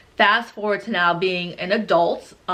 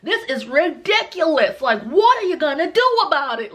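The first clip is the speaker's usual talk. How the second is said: indignant white friends; 7 semitones higher than usual. Retold or imitated. Two white friends protesting the ER wait, outraged. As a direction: exaggerate every word in put-on indignation. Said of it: "my two white friends were just like".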